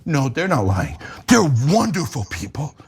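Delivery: pompous reassuring newsman; mock anchor voice. Mocking media reassurance.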